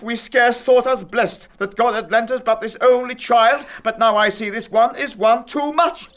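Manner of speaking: high, loud, raging father; furious tirade. Acted. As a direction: shriek it, barely holding back. Father raging at defiant daughter.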